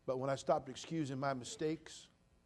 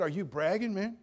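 mock disbelief, louder; incredulous; 6 semitones higher, 6 dB louder than usual. Pastor retelling his reply to the inmate, incredulous. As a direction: ask it like you can't believe it. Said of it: "I said".

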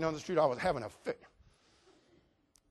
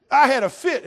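mock yell; 9 semitones higher, 12 dB louder than usual. Preacher retelling his outburst.

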